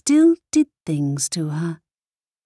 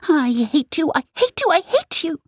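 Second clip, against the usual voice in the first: put-on repeated child's cry; 10 semitones higher than usual. A narrator's reading. Girl clawing at her mother's skirts, shouting. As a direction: keep hurling it higher.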